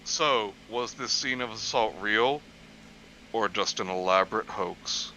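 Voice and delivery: very low, dramatic TV narrator voice; a deep mock true-crime announcer.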